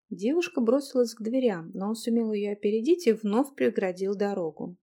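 plain reading voice

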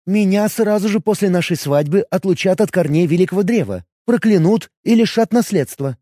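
jealous elf questioning her man; elf woman voice. Acted.

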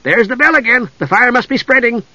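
light, high, eager kender voice; bright boastful young kender; Tass the kender. A narrator's reading. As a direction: play him chirpy and proud. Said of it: "Tass said".

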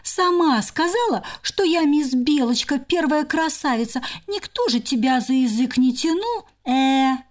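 high mocking sister voice; teasing squirrel. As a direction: needle her sister.

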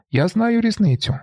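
very high, insistent shout. A narrator's reading. Marla insisting to the narrator, shouting. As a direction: cry it out with certainty. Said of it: "кричить Марла".

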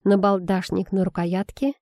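usual speaking voice

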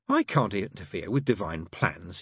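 hoarse croak. Acted. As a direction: croak it out, dry-throated. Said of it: "he croaked".

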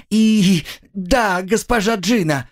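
high, strained yes; whipped girl, high, pained yes; pained submission. Acted. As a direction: force out the answer in pain.

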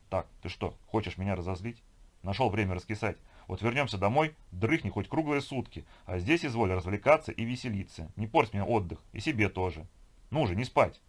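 lightly voiced scolding woman; bossy companion. Woman rousing her dozing partner on holiday, mildly bossy. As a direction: chide him, lifting into pushy emphasis.

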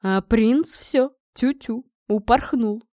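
drawn-out, mildly mocking father; lightly teasing announcement; smirking huff. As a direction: toss it off with amusement. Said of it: "хмыкнул папенька".

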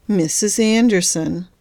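slow, reproving warning; disapproving warning. Acted. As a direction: stretch the name out to rebuke her. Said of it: "warned the nurse disapprovingly".

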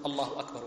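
single takbir, then a clear stop; separate takbir. Shown as a demonstration. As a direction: say it alone and pause. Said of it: "وتسكت".

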